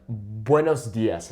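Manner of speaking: mock bad accent on the Spanish greeting; horrible Spanish accent. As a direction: imitate a clumsy learner's Spanish accent, drawn out. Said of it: "in this horrible accent".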